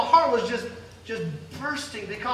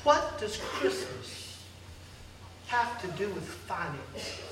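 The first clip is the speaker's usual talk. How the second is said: slow, hushed voice of God starting in a whisper, fading away; 2 semitones lower, 5 dB quieter than usual. Retold or imitated. Preacher voicing God, hushed and slow. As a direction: speak it gently as God answering. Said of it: "And God told me".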